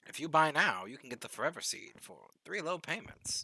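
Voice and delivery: commercial voice. Pretend. Mock TV ad pitch.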